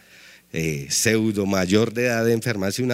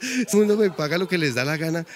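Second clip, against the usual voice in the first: laughing; 5 semitones higher than usual. Real, not acted. Laughing punchline about the fare.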